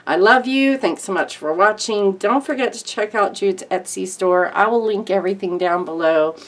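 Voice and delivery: real tears while saying goodbye; tearful. Real, not acted. Vlogger thanking her viewers for their support, tearfully. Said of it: "Sorry about the sniffles".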